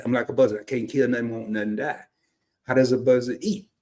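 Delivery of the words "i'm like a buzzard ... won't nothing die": casual Southern run-together delivery; down-home Southern way. Shown as a demonstration. Showing how folks back home say it, casual Southern accent. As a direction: let it slide out in Southern dialect. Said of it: "But that ain't how we say it".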